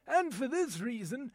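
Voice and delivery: "and for this reason" in an indignant British English accent. Shown as a demonstration. An Englishman arguing politics, says "and for this reason" in an English accent. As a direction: say "and for this reason" like a grumpy Englishman, rising at the end. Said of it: "my voice talent demonstration".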